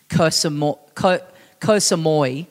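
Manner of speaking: "Koh Samui" with the end as "moy"; imitated mispronunciation. Quoting a podcaster's maddening version, "Koh Samui" ending in "moy". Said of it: "Dave would pronounce it as".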